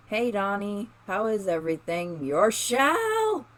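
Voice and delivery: rising into a startled high cry; shocked. Acted. Girl walking in on Donnie, shocked gasp at his shell. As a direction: caught off guard by the bare shell, voice jumping up.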